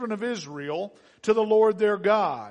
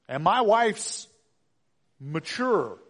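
slow, careful word choice; hesitate, then pick the polite word; delicately measured understatement; tactful; 3 dB louder, slower than usual. Acted. Tactful hesitation after blunt admission.

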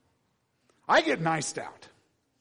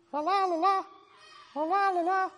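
much higher, cheerful puppet singsong; Elmo voice; 6 dB louder than usual. Shown as a demonstration. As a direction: chirp it like Elmo. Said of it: "It needs to be more Elmo".

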